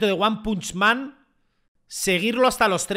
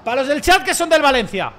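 taunting dedication; 6 semitones higher, 7 dB louder than usual. Real, not acted. Taunting Valencia fans in chat.

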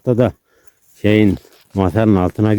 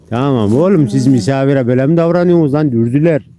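mock scolding; 4 semitones higher than usual. Real, not acted. Scolding dogs at guest.

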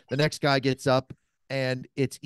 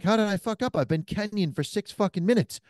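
exasperated protest; 7 semitones higher than usual. Retold or imitated. Retelling protest to Kenyan buddy.

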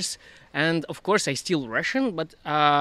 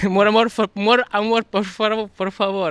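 higher, louder playful recital; recited slogan; 4 semitones higher, 4 dB louder than usual. Retold or imitated. Guest recites a slogan seen in a Guadalajara hostel, playful recital. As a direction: recite the catchy phrase with a lift in pitch.

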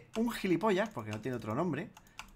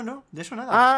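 loud denial; 8 semitones higher, 10 dB louder than usual. Real, not acted.

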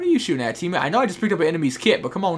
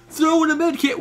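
higher, louder yelled "throw in a med kit"; mock soldier call-out; 12 semitones higher, 4 dB louder than usual. Mocking the game's random call-outs, loud yell. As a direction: bark it like a game soldier. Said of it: "Why are you yelling at?".

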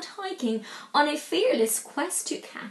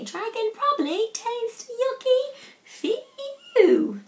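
a higher relieved Viking voice; 9 semitones higher, slower than usual. Acted. Harold relieved after fleeing the dragon, higher voice. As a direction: sound relieved it's over.

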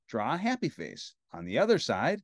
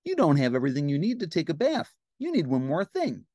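Ernie; 2 semitones higher, faster than usual. Acted. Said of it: "said Ernie".

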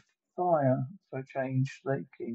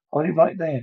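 cop shouting halt; 2 semitones higher, 6 dB louder, faster than usual. Acted. Cop stopping the fleeing man.

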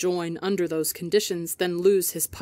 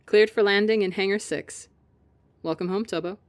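smiling voice; 2 semitones higher, 3 dB louder than usual. Acted. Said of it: "with a clear smile in her voice".

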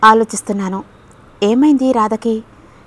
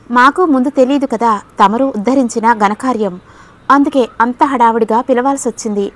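sarcastic, a bit angry; 3 dB louder than usual. Acted. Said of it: "వ్యంగ్యంగా ఒకంత కోపంగా అన్నాడు శ్యామ్".

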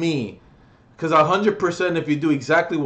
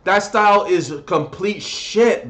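angry; 3 semitones higher than usual. Real, not acted. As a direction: tell him off. Ranting at a rapper.

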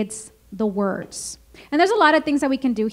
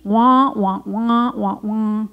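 Charlie Brown adult wah-wah; 3 semitones lower, slower than usual. Retold or imitated. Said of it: "the Charlie Brown cartoons when adults speak".

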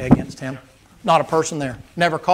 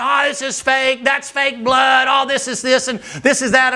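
mocking heckle; 6 semitones higher than usual. Hecklers mocking the wrestlers as fake, jeering. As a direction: jeer at the ring like a rowdy fan.

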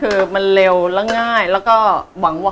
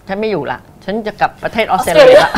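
mock hurt threat; 6 dB louder than usual. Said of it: "น้อยใจว่า".

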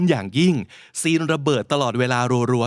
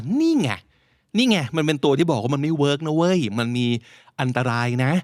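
mock told-you-so; 2 semitones higher than usual. Teacher voicing Greenpeace's warning about oil policy, mock told-you-so. Voices Greenpeace's complaint in a quote.

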